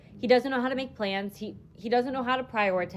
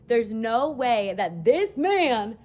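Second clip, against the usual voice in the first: loud, drawn-out incredulity; emphatic disbelief; 6 dB louder, much slower than usual. Retold or imitated. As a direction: stretch the words out in loud disbelief. Retelling her disbelief at him.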